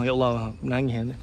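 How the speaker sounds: low, soft, choked-up murmur; real tearful sadness. Real, not acted. Recalling first month's thirty recruits, moved to tears. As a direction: voice drops as tears come. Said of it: "sedih, keluar air mata".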